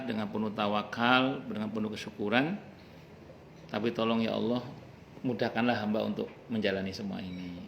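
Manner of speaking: soft, earnest plea to God; humble prayer. Acted. Preacher voices a patient believer praying to Allah, soft and sincere. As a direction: pray it gently, surrendering. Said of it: "kalau bahasa sederhananya itu".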